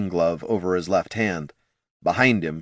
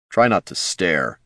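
slow, understated terseness; cool, restrained rebuke; terse; 2 semitones lower than usual. Acted. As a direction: say it curtly, without raising the voice. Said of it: "Jin said to the dwarf tersely".

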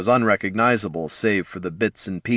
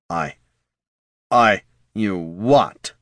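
exasperated; slower than usual. Acted. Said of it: "his voice laden with exasperation".

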